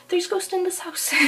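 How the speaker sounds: whisper. Retold or imitated. Retelling ghost claim to dad.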